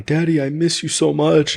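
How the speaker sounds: put-on high little girl voice, missing daddy; imitating crying daughter. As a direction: plead like a small child.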